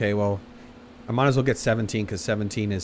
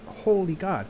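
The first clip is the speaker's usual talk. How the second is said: high, strained gasp of pain; pained exclamation; 8 semitones higher, slower than usual. Real, not acted. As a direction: blurt it out burning from spice. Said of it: "I can handle spicy food".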